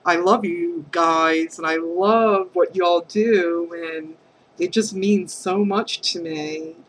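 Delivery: fighting back tears while saying thanks; getting emotional. Real, not acted. To the craft group, voice welling up with emotion. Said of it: "God, I'm getting all emotional".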